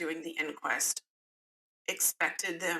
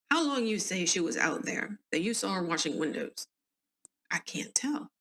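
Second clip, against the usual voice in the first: put-on southern accent. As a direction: read the inquest lines with a Southern lilt. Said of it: "give everybody a southern accent".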